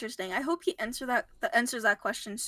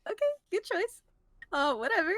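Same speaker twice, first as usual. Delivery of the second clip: sarcastic; 7 semitones higher than usual. Retold or imitated. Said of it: "I was like".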